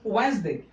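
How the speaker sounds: वेडनेसडे as wenz-day, falling at the end; silent D. Shown as a demonstration. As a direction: skip the first D in वेडनेसडे. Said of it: "यहाँ पे डी silent रहता है".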